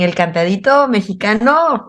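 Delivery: "el cantadito mexicano" in a Mexican lilt that swings at the end; mild imitation of a Mexican sing-song accent. Nicaraguan guest imitates how Mexicans say it: light Mexican sing-song. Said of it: "Y en México dicen".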